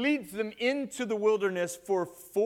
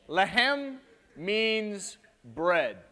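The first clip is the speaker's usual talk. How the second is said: very slow, "Lehem" held long; lingering on "Lehem" for the class; slow teaching; 3 semitones higher, 3 dB louder, much slower than usual. Shown as a demonstration. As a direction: draw it out to teach it. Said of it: "teaching the word slowly".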